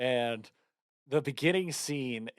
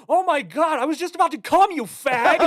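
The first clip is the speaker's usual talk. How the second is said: very high, loud shrieking dad voice breaking into laughter; hammed-up frantic father, laughing through it; Robin Williams panicking; 13 semitones higher, 7 dB louder than usual. Quoting the movie's opening line, high shrieky voice. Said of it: "then he's just like".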